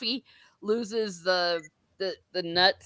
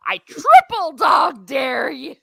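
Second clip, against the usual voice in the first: mock dare; 5 semitones higher, 7 dB louder, slower than usual. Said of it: "he's trip".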